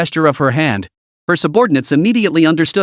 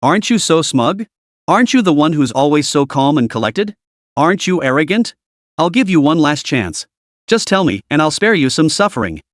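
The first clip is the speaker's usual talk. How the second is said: mocking. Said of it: "with a mocking tone".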